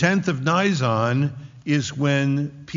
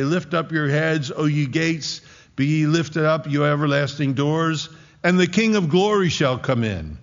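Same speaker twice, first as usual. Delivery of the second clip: building proclamation from the priests below; priest's call; 2 semitones higher than usual. Acted. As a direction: call up to the wall, swelling toward the end. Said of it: "what's getting screamed on the walls".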